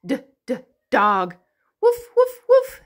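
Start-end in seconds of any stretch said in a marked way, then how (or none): 1.8-2.8 high, loud playful woof; dog barking. Shown as a demonstration. Teacher barks like a dog for the children. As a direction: bark like a puppy.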